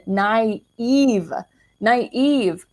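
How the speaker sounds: "naive" stretched out in two swooping syllables; emphatic NAIVE. Real, not acted. Owning up to past blindness, emphatic "naive". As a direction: lean hard on each "naive", letting it fall. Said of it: "like, capital N".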